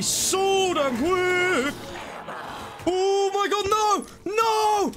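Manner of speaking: real panic as it goes wrong; panicked yell. Real, not acted. Panicking as the game ends.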